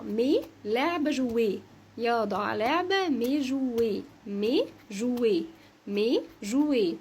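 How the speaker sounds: slow, separated "مي" and "جويه", ending in é; French pronunciation demo. Shown as a demonstration. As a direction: model "جويه" slowly with a silent t. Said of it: "اخرها او تي انطقها ايه".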